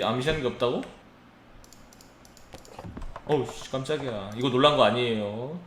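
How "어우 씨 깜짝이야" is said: cursing under breath. Real, not acted. Startled by peephole.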